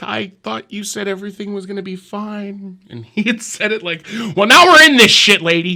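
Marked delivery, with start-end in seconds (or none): 0.0-2.8 high, soft wailing and crying. Retelling a woman on a plane during the brace warning, imitating her wailing and crying. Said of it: "she starts wailing and crying".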